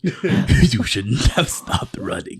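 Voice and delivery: menacing taunt, cracking into laughter; a villain taunting, breaking up laughing; mock villain trash talk. Friend imitating a fantasy villain's trash talk, laughing. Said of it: "it did that mad shit talk".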